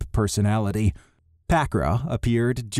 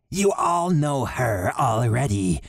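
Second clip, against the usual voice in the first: lightly raised voice for the leader; Riz's voice; 3 semitones higher than usual. Acted. Riz, a character voice.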